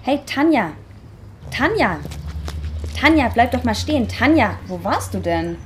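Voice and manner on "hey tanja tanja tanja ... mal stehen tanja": calling out. Acted. Woman calls after her friend Tanja as she walks away, calling out. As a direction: shout her name to stop her.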